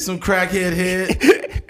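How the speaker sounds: laughing through the words. Real, not acted. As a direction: crack up mid-phrase. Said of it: "repeats laughing".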